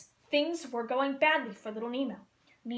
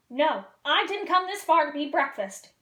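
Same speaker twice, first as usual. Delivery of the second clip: louder, desperate yelp; 3 semitones higher, 6 dB louder than usual. Acted. Marlin yelping in the pelican's throat, desperate. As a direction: protest in panic. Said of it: "yelped Marlin".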